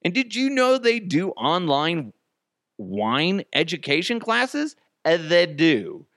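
upbeat sponsor pitch; quick, bright host-read ad. Acted. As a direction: sell it like a radio spot. Reads sponsor ad.

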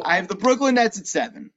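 measured, unbudging repeat; matter-of-fact restatement. Real, not acted. Podcaster repeating the pick after co-host's wow, matter-of-fact.

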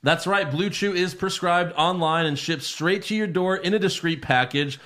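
lively pitch, slowing on the web address; ad read. Acted. Host pitches a sponsor to listeners, ad-read style. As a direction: sell it like a podcast sponsor spot.

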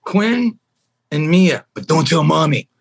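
a dad playing his kid confiding a secret; imitating his five-year-old. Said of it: "And he goes".

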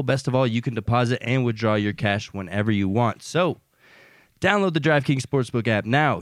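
upbeat podcast ad read; sponsor ad read. Acted. Host reading the DraftKings sponsor spot to listeners, ad voice. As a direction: sell it like a sportsbook spot.

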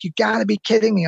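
reliving a can't-believe-it moment; retold disbelief. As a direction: rattle it off in mild amazement. Retells disbelief at meeting his idol.

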